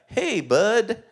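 mock-sweet effeminate greeting with a laugh. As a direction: exaggerate an awkwardly tender hello. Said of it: "It feels effeminate".

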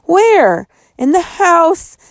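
high, tense and hurried; spooked boys; scared. A narrator's reading. Frightened exchange about ghost.

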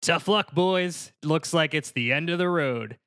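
cocky, lightly voiced film-star dinosaur; George Clooney. Yoshi smirking at the police from a cliff, lightly voiced George Clooney. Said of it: "George Clooney as the voice of Yoshi".

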